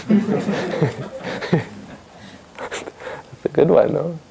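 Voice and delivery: amused, laughing while praising the answer; real laughter. Real, not acted. Laughs at child's joke answer.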